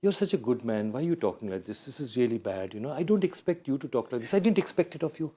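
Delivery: innocent gentle reproach. Retold or imitated. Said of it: "gives this really innocent smile".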